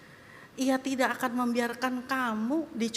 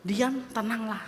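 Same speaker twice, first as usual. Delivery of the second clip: gentle command. Acted. Calm version, gentle command.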